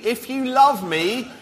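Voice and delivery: very slow, deliberate verse reading; spaced-out, carefully clear reading. Real, not acted. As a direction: read it out word by word so all can hear. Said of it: "hear the words nice and clearly".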